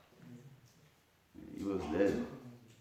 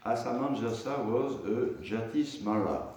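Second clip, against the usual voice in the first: measured, formal reading aloud; scripture commentary reading. Acted. Teacher reading the purport to students, measured reading aloud. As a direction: read the commentary out to a class.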